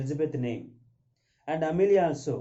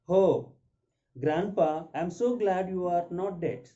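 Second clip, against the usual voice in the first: high, glad cry of relief; excited girl; 5 semitones higher, 4 dB louder, slower than usual. Acted. Teacher acts Victoria's line.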